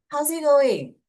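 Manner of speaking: loud, high-pitched holler; acted yell. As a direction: shout the greeting out. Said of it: "He yells".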